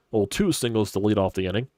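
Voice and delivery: ordinary talk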